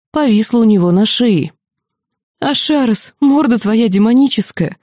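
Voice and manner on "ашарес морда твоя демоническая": mild tearful outburst; a hint of sobbing relief; bursting into tears. Mentor hugging the demon she missed, mildly tearful. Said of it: "разрыдалась она".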